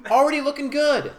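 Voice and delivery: high, loud, laughing through it; trying not to laugh. Real, not acted. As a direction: say it while cracking up. Giggling at their own camera setup.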